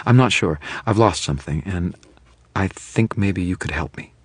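unsure, nervous caller; nervous woman. Acted. Nervous client on phone.

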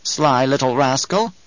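slow, knowing crone voice; sly old crone. Acted. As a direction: savour it like an amused old witch. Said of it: "She chuckled".

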